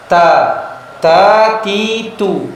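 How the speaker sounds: "ta", "ti", "tu" with a faint breath; correct ta ti tu. Shown as a demonstration. Teacher showing students the correct breathy ta. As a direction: demonstrate the vowels with light air. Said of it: "Itu sudah ada hamesnya".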